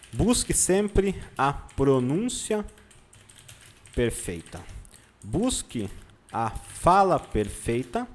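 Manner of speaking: slow, spaced-out dictation; dictating while writing. Real, not acted. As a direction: say each word as you write it, pausing between.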